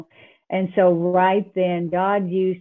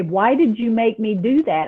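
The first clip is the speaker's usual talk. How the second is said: mildly raised, complaining voice; mock yell up at God; retold yelling at God; 3 semitones higher, 4 dB louder than usual. Driver yelling at God as she drives away, mild retold yell. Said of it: "I was yelling at God".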